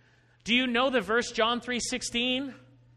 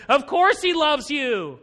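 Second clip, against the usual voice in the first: slow complaining; 3 semitones higher, 6 dB louder than usual. Retold or imitated. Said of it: "And he's complaining".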